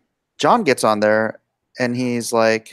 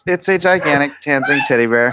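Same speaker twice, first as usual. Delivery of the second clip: laughing. Real, not acted. Laughing answer.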